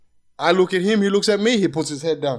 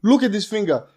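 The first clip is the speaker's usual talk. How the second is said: retold angry demand; 5 semitones higher, 4 dB louder than usual. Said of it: "I'm like".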